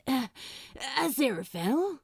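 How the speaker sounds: quick, rising call for someone who has vanished. Acted. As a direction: call his name fast, pitch climbing in worry. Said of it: "he called".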